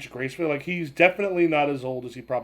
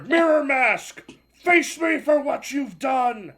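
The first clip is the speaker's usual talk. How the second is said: slow, higher, louder villain cry, words made clear; clearer villain shout; 9 semitones higher, 6 dB louder, slower than usual. Acted. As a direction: repeat the challenge slowly, clearer this time. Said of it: "I'm sorry, what was that?".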